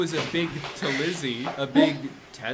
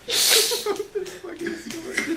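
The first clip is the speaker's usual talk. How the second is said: high, slow disbelief; can't believe what you read; incredulous. Real, not acted. Incredulous at bad story.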